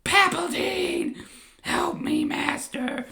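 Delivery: very high, loud, drawn-out Gungan cry; Jar Jar wailing in pain. Acted. Jar Jar crying to Palpatine after slicing his arm, high wail. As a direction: howl over the cut-off arm, hammed up. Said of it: "as Jar Jar is screaming in pain".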